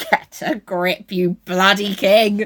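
slow, dragged-out scolding; exasperated telling-off, slowed down; mock exasperation. Mocking the sobbing king: slow exasperated scold.

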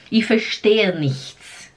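slow, careful German; devagar e claro. Shown as a demonstration. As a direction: spell it out slowly for learners. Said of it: "Em alemão seria". (alemão bem devagar)

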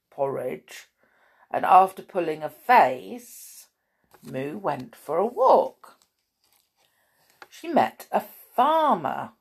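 measured picture-book reading; children's story narration. A narrator's reading. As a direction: read it to small children, pausing between phrases.

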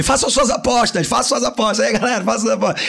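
mock showman inviting bets; bookie announcer. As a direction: hype up the crowd like a bookie. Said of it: "O sanguíneo vai dizer".

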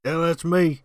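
lightly voiced Cockney Bob Hoskins; a hint of Cockney; Cockney impression. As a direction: keep the cheeky Cockney lilt. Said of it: "It's my famous accent".

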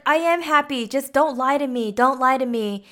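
mildly heated retold insistence; really upset. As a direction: imitate a wife warning her husband. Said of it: "she's, like, really upset".

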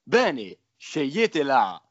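salesy commercial pitch. Pretend. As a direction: sell it like a TV spot. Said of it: "dobbiamo farla per bene".

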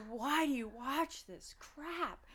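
drawn-out, mildly incredulous complaint; mildly exasperated. Retold or imitated. Husband to wife about her stupid shows, mildly exasperated.

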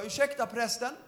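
retold with laughter in the voice; laughing quote. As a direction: laugh through the cheeky interruption. Retelling interrupting the preacher. (skrattande återberättat)

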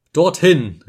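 loud, high exclamation; crying out. A narrator's reading. Narrator alone in the room, crying out his decision. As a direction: fling the word out. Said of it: "rief ich".

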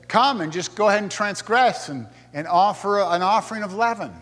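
sarcastic God. Retold or imitated. God sarcastically telling Israel to go ahead and sin. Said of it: "is saying this sarcastically".

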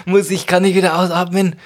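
breathless high laughter; laughing. Real, not acted. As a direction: laugh while holding breath. Laughing, can't stop breath-holding.

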